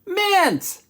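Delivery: high, loud mock announcement; calling out ingredients. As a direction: shout each word on its own. Shouts out each ingredient added.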